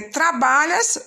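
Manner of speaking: "trabalhas" with the BA syllable stressed. Shown as a demonstration. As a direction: lean on the middle BA of "trabalhas". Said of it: "a sílaba tônica aí é o ba".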